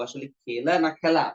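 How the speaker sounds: খেলা both ways, slowly set against each other; slow contrast. Shown as a demonstration. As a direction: compare খেলা and খ্যালা. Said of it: "লেখা কিন্তু খেলা". (খেলা বনাম খ্যালা ধীরে)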